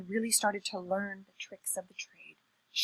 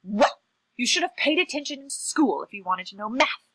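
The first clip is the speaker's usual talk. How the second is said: louder, scolding brush-off; rather mean; 2 semitones higher, 6 dB louder than usual. Acted. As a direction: snub them with a mean little lecture. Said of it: "really rather meanly".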